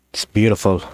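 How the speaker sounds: hushed awe over treasure; awed. Real, not acted. To viewers, admiring fan art like treasure, awed. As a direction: say it like gazing at a pile of gold. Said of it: "I don't know why I said it like that".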